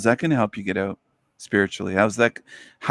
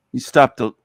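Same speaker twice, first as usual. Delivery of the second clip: sarcastic. Real, not acted. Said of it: "and I'm being sarcastic".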